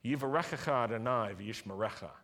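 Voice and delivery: recited Hebrew blessing, measured and solemn; priestly blessing. Acted. Pastor closes the service with Aaron's blessing, solemn. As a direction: pronounce the blessing over the standing congregation.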